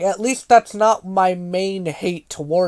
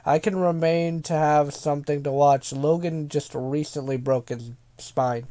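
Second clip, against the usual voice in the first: sarcastic reading; 5 semitones lower, 6 dB quieter than usual. Retold or imitated. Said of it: "thanks for the courtesy of me reading this comment".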